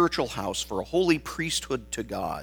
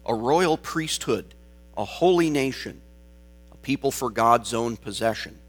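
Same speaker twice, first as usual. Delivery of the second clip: measured, solemn Bible reading; scripture reading. Acted. Pastor reading the verses to the congregation, solemn scripture reading. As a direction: read the verses with weight and dignity.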